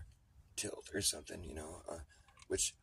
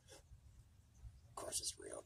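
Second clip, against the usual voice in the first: slow drawn-out hypnotic whisper; eerie whisper; 12 dB quieter, much slower than usual. Pretend. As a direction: lull them back into belief. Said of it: "repeated, second whispered".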